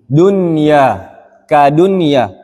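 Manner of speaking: "dunia" with the n sounded clearly before ya; unmerged nun. Shown as a demonstration. Teacher giving the example of no merging, clear nun. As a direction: keep the n distinct in "dunia". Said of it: "jangan diidghamkan".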